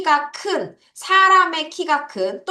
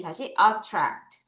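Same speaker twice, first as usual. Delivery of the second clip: slow drill; 3 semitones lower, much slower than usual. Shown as a demonstration. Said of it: "왜 끊었냐".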